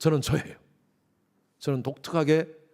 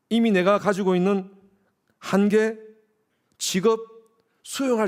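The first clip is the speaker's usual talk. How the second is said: emphatic preaching; 5 semitones higher, 5 dB louder than usual. Acted. Building sermon climax.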